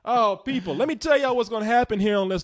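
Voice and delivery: announcer-style host voice; Leon impression. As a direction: hype it up like a show host. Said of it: "that's my Leon impression right there".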